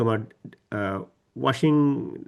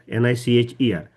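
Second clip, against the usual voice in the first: spelled out; 4 dB louder than usual. Shown as a demonstration. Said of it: "spelling the word".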